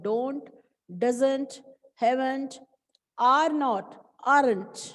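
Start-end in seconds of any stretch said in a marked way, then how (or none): 0.0-2.6 "don't", "doesn't", "haven't" one by one; each of "don't, doesn't, haven't" a separate joined word; pronunciation drill. Shown as a demonstration. Teacher showing how to say short forms, "don't, doesn't, haven't" spaced out. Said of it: "इसको बोलना भी ऐसे है".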